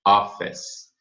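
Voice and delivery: "office" with the C said as S. Shown as a demonstration. Teacher shows where the word stops, S-ending demo. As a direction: end "office" on an S sound, no E. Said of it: "Como se esse C fosse um S".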